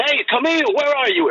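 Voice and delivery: high retold call to a lost dog; searching call, acted out in a high voice. Retold calling for missing dog.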